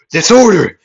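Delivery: very high, loud burst; yelled attack call. Acted. Midoriya countering the wind needles, yelling out. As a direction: fire the move name out as a battle cry. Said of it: "as he would yell out".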